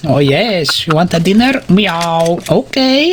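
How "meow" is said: spoken mock meow at usual pitch; playful cat meow. Man introducing his pet cat, playful cat meows. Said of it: "it's my pet cat".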